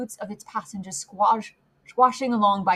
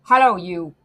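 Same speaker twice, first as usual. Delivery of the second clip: loud, blunt hail; calling out; 2 semitones lower, 8 dB louder than usual. A narrator's reading. Guard to rider, calling out. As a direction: hail him from the coach.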